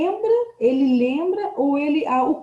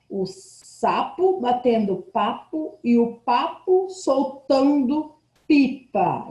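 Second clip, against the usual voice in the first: rhyme read aloud; slower than usual. Acted. Teacher reads a children's rhyme.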